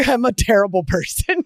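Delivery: amused, giggly self-own; laughing confession. Real, not acted. Admitting delight in tormenting a game character, laughing.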